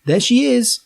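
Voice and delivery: high-pitched announcing cry; excited yell. A narrator's reading. Guide sighting the shack on top, yelled out high. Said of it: "and then Andy yelled".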